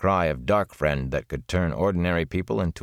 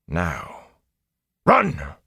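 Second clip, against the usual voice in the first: shouted order; 2 semitones lower than usual. A narrator's reading. Tom shouting at the boys.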